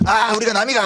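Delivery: 경상도 사투리 흉내; Gyeongsang accent. Retold or imitated. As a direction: lightly imitate a Gyeongsang speaker saying we're all one. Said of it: "경상도 분들은 사실은 이제 서울 와서도".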